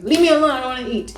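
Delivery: high, irritated mock shout; annoyed shout. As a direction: cry out to be left in peace, acting it out. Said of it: "I remember shouting".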